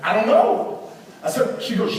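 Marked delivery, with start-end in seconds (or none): 0.1-0.8 stammer, then jump higher; mock-helpless high-pitched stammer; flustered. Husband caught out by wife's question, flustered.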